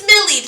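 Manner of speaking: high, loud "Smillied", said SMILL-eed; wrong reading with long E. Shown as a demonstration. Teacher showing what two E's would give, loud "Smillied" as SMILL-eed. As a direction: hit "Smillied" with an ee before the d. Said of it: "what happened if we put two E's".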